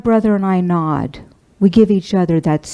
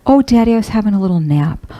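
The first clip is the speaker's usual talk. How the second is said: crying through quick words; hurried, voice wet with tears; answering her dying father through tears; tearful; faster than usual. Real, not acted.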